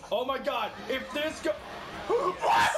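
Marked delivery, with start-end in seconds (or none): 2.1-2.7 loud, high cry of disbelief; shocked shout. Real, not acted. Shocked by lost round.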